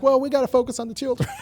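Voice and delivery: fast, half-shouted mock excuse. Mocking officials dodging blame with the children line. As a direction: fire off the stock excuse sarcastically. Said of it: "and then you're like".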